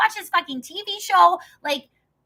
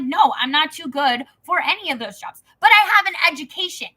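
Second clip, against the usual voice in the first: retold angry retort. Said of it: "And I'm like".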